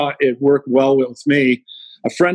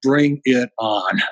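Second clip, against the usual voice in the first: slow defiant challenge; 3 semitones lower, much slower than usual. Retold or imitated. Daughter's challenging look voiced.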